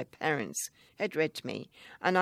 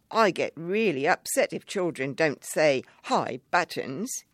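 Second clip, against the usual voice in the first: sadly; 5 dB louder than usual. Retold or imitated. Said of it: "he said sadly".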